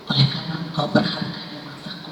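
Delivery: breathy whisper of God's tender words; tender voiceless whisper; hushed whisper. Acted. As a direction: let it fall to a near-silent whisper. God's loving words quoted softly.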